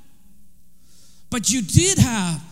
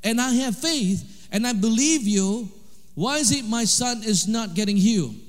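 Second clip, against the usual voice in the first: retold pleading prayer; 4 semitones higher than usual. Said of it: "He said".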